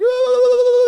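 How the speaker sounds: high, loud imitated shiver; mock shuddering kid noise; quivery-lip shiver. Child straining in the back seat, imitated quivering shiver. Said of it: "like, the quivery lip".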